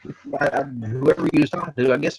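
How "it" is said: mock surprised oops. Retelling the shop's phone reply.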